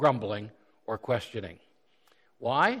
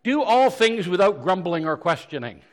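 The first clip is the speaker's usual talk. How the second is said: verse read out; 5 semitones higher, 8 dB louder than usual. Shown as a demonstration. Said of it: "it's the next verse that really pinches".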